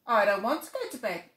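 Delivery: brave little tiger. Acted. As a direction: declare it bravely. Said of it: "said Little Tiger bravely".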